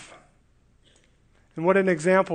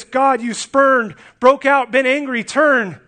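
higher, louder, slow broken phrases; exasperated; 4 semitones higher, 4 dB louder than usual. Shown as a demonstration. David, spurned by God, barely getting words out in exasperation. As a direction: blurt each word out in exasperation. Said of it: "The words are spoken in exasperation".

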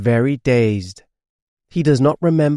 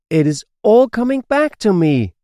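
bright, lifted happy line; dog remembering at last, gladly; happily; 9 semitones higher, 4 dB louder than usual. A narrator's reading. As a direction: say it with relief and joy. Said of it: "says Sniffy happily".

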